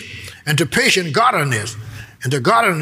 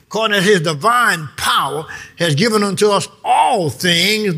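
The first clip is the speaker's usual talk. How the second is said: preaching shout; 3 semitones higher than usual. Real, not acted. Preacher reading key verse.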